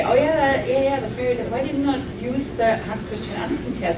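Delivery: light, keen mock reader voice; chirpy impression of a fan asking; imitating eager readers. Author mimicking readers asking about Andersen, lightly eager. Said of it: "many people would probably say".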